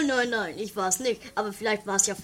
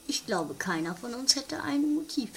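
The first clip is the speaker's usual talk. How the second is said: whispered aside; 2 semitones higher, 5 dB quieter than usual. Acted. Detective whispers his suspicion.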